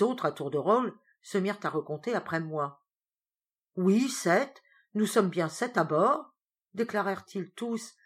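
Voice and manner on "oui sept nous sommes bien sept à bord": trembling with dread. Acted. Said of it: "avec un tremblement d'épouvante dans la voix".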